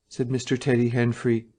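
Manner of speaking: ordinary delivery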